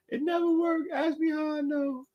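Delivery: words squeezed out high through laughter; laughing. Real, not acted. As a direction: giggle through the punchline. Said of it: "that's funny".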